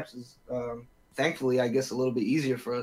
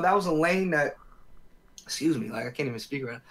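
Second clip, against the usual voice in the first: talking with food in mouth; mouth full. Real, not acted. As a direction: speak around a mouthful of food. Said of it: "You're eating too good".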